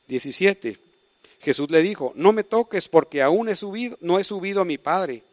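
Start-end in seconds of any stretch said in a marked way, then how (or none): 2.1-5.2 higher, louder firm voice; Jesus telling Mary, raised and louder; earnest command. Acted. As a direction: forbid her gently but firmly.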